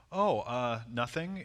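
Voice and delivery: hesitant, halting imitated reply; self-conscious. Women replying to a friendly stranger, self-conscious. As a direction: answer as if caught off guard. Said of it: "almost like they're self-conscious".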